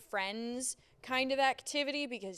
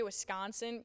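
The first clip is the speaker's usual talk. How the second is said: Central New York accent. Shown as a demonstration. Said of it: "you can hear my Central New York accent".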